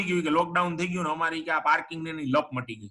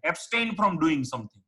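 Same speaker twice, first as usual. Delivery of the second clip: slow definition; much slower than usual. Shown as a demonstration. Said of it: "એબ્સ્ટિનન્સ કહેવાય એને".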